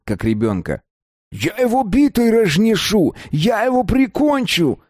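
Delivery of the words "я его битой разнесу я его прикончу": heated threat. A narrator's reading. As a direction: rage at the runaway. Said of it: "горячился Юраш".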